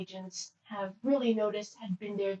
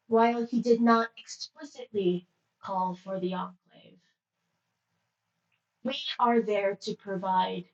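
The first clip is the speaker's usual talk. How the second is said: strong, even monotone attendant. Acted. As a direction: speak with no rise or fall. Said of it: "monotone voice".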